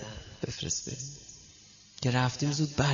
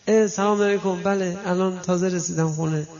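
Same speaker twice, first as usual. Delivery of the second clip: high thinned voice, louder, eager to please; thin polite voice; 6 semitones higher, 5 dB louder than usual. Retold or imitated. Husband answering his boss on the phone, thin high voice.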